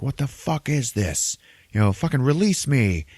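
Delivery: mock-furious monster demanding release; Dormammu. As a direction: giant villain all pissed off and fed up. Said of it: "Dormammu is getting all pissed off".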